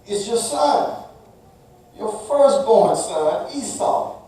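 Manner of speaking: slow, earnest son naming himself; Esau replying. Acted. Esau telling his father who he is, slow and earnest. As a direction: say it slow and plain as the firstborn. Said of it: "Esau replied".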